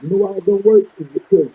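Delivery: muffled phone line. Real, not acted. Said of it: "It's still muffled".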